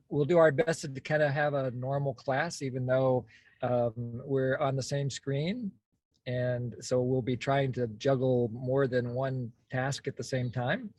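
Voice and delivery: phrase ends lifting like questions; upspeak. Real, not acted. Co-host explains the class plan to participants, in upspeak. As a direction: let each clause end on a rising tune. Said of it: "your voice going up like that".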